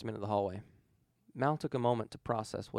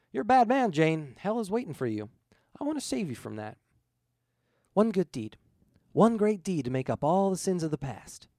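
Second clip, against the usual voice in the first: higher, louder, fervent; preaching ghost; 5 semitones higher, 5 dB louder than usual. Acted. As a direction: urge him toward redemption. Ghost urges redemption.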